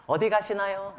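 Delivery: light polite guard's question, stress on 어디. Retold or imitated. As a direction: ask kindly where she's going, 어디 first. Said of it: "물어봤어요".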